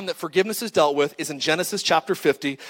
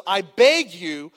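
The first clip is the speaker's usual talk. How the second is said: mock pleading; 5 semitones higher, much slower than usual. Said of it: "he said this to Joseph".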